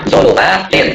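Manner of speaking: "zulumatin" said slowly with an -in ending; model -in reading. Shown as a demonstration. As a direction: stretch "zulumatin" out to a final -tin. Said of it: "Berarti bacanya".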